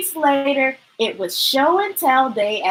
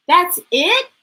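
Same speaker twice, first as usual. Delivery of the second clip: amazed; 7 semitones higher, 5 dB louder than usual. Acted. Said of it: "with amazement and relief".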